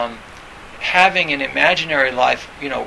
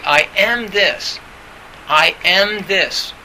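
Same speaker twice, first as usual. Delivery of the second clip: slow affirmation; 3 semitones higher, slower than usual. Shown as a demonstration.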